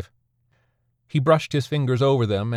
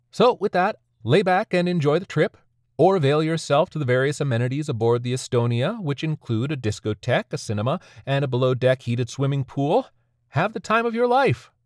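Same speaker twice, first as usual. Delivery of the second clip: bright cruise-director pitch, voice lifted high; cheery announcer; 5 semitones higher than usual. Acted. Ferry host welcoming the dead aboard, chipper and high. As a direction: sell the trip like a chipper tour host.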